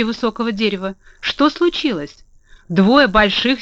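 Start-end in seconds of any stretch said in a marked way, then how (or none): 1.2-2.2 slow, grieving question; sorrowful. A narrator's reading. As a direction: ask it slowly, with grief. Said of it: "горестно спросил".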